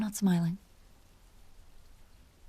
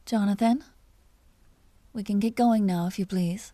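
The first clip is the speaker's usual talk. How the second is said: calling out; 4 dB louder than usual. Acted. Calling to someone nearby.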